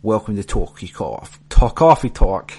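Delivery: put-on loud New York Jewish lady accent; brassy middle-aged New York Jewish lady accent; Mike Myers Jewish lady accent. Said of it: "my best Mike Myers middle-aged Jewish lady accent".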